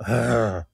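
imitated growl. Guest describing the noise outside the hotel, a mild imitated growl. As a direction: growl like a beast, lightly. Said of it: "I hear this growling noise".

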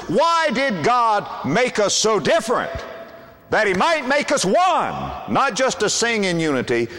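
preaching. Acted. Sermon climax.

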